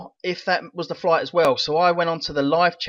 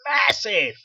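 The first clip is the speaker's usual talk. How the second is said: shouted hype; 6 semitones higher than usual. Acted. Hyping the project.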